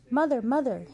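high, loud excited calling; excited cry. A narrator's reading. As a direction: call out to mother, thrilled. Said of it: "his new friends cried".

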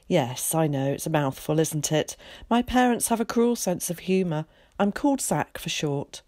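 a lightly voiced chatty, confident boy; eager boy Zack. Zack introducing himself to Willie, lightly voiced and breezy. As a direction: play a breezy, talkative schoolboy.

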